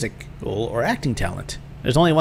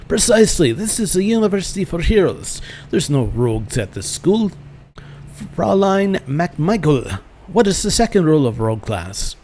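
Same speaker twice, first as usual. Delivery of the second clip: put-on emphatic master with a German accent, pitched up; German schoolmaster; 6 semitones higher than usual. Master quizzing pupils on rogue rules, in a German accent.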